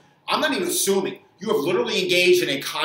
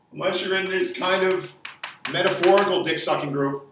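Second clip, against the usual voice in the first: ordinary talk, nothing marked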